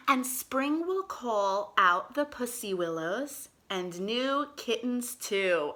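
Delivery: slow storybook reading aloud; reading to children. Acted. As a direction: read it slowly to little kids.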